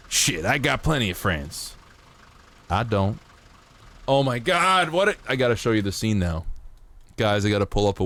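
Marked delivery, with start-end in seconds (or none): 0.1-3.2 lightly voiced Doc Holliday, offhand; Doc Holliday line. Quoting the scene to chat, light Doc Holliday voice. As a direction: toss off "plenty" like a cool gambler. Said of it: "I like to riff off of Doc Holliday".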